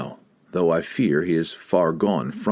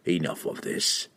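cold assassin voice; 3 semitones lower, 6 dB quieter than usual. Acted. Entreri cuts it off.

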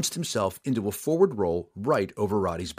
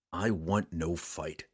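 firm; 4 semitones lower, 6 dB quieter, slower than usual. Acted. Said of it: "Drizzt offered firmly".

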